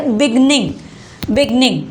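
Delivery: "बिगनिंग" said with weight on the GIN part; stressed GIN syllable. Shown as a demonstration. Teacher showing why the N doubles, stressed GIN. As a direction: press the "गनिंग" in "बिगनिंग", each time separately. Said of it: "जोर डाला जा रहा है".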